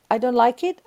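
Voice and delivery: admitting dislike gently inside a prayer of acceptance; calm acceptance. Pretend. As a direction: say it while letting it go.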